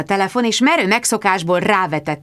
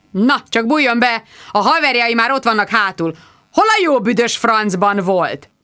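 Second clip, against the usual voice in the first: gruff host; 3 semitones higher than usual. Acted. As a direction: bark a rude welcome. Gruff host greeting rudely.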